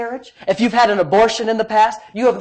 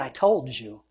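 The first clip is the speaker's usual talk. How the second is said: retold voice of God; 8 semitones lower, 9 dB quieter, slower than usual. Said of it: "And he said".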